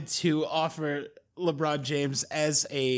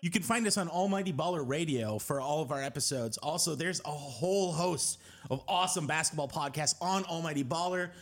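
soft steady promo read; podcast outro read; 3 dB quieter than usual. Acted.

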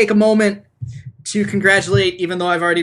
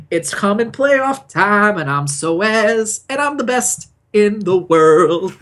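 slow, hammed-up self-hype as Soaz; lightly voiced cocky player, drawn out slowly; mock Soaz boast; 3 semitones higher, slower than usual. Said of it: "sings the same song that you just sang".

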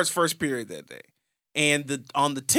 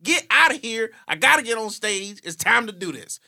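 high, loud, pushy disbelief; mock indignant teen; 9 semitones higher, 4 dB louder than usual. Teen Mathis scoffing at his crying teacher, high and pushy. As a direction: scoff at her for crying, then hype yourself up. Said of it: "and I'm like".

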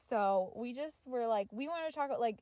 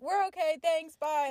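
polite brush-off; 3 semitones higher, 5 dB louder than usual. Retold or imitated. Acting out brushing off the man.

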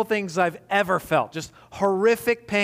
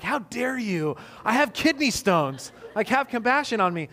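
mildly indignant retort, pitched higher; mock offended; 4 semitones higher than usual. Husband replying to wife who doubts his pain, mock offended. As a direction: act a touch wounded, pleading for compassion. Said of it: "I'm getting offended".

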